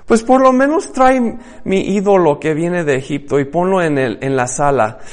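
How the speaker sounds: a wife pressing her husband for her idol; demanding wife voice. Retold or imitated. Egyptian wife to Solomon, demanding with a high start.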